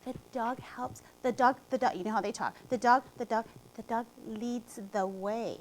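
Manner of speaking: lightly voiced small child, stammering softly; imitating a shy little girl, hushed and hesitant; tiny child voice. Teacher retelling a shy student's answer, softly imitated small voice. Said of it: "a little tiny, tiny voice".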